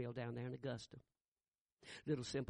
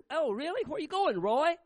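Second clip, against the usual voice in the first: high, loud pointed question; loud and higher, pressing him; loud challenge; 13 semitones higher, 11 dB louder than usual. Retold or imitated. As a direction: call him out in front of everyone. Preacher confronts Roy loudly.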